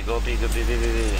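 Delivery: shouting the call urgently; loud callout. Real, not acted. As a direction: yell go B over the team. Callout during a round.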